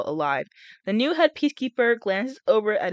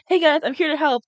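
mock Haymitch; 7 semitones higher, 6 dB louder than usual. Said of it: "He's like".

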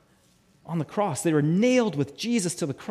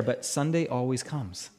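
low, soft, understated refrain; hushed, settled promise; quiet assurance; 6 semitones lower, 5 dB quieter than usual. Real, not acted. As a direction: say it low and softly, with quiet certainty. Preacher's first, understated take of refrain.

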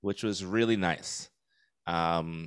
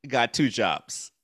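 proud laughing brag; 9 semitones higher, 4 dB louder, slower than usual. Real, not acted.

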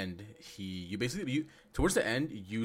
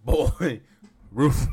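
mock yell; 5 semitones higher, 16 dB louder than usual. Mock Kratos yelling about roof.

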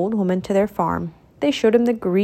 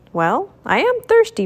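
to himself; 8 semitones higher than usual. A narrator's reading. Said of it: "Mickey said to himself".

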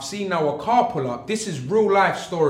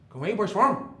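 put-on clumsy stab at an Irish accent; half-hearted Irish accent; attempted Irish accent. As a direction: imitate an Irish guy, not very convincingly. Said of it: "I wish I could do an Irish accent".

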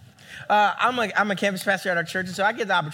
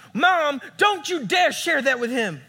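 put-on mortified teen; 6 semitones higher, 3 dB louder than usual. Embarrassed daughter scolding mom.

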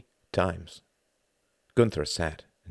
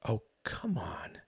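hushed protest; 5 semitones higher, 8 dB quieter, slower than usual. Acted. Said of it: "cried Tom".

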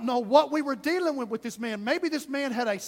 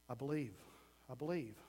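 very soft, low murmur; barely voiced, awed-sounding acted belief; hushed profession; 11 semitones lower, 16 dB quieter, faster than usual. Blind man answering Jesus after being healed, hushed profession.

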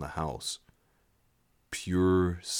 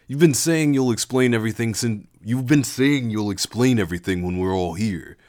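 demanding; 4 semitones higher, 5 dB louder than usual. Acted. Jax demanding an explanation.

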